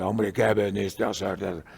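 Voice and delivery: slow, forceful man's voice from a possessed woman; slow, strong mock-demonic male voice; masculine possessed voice. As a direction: imitate a demon speaking in a man's voice. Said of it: "una voz masculina".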